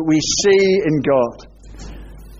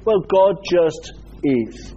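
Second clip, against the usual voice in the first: dismissive; slower than usual. Shown as a demonstration. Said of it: "in a dismissive way".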